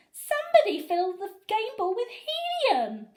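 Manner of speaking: high, loud accusing cry; fan calling out. A narrator's reading. Fan in the stands accusing someone, high and loud. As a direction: announce it to the whole stadium.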